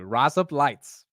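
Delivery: slow amateur Australian accent. Shown as a demonstration. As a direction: try a drawn-out Australian accent. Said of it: "that's not the worst accent".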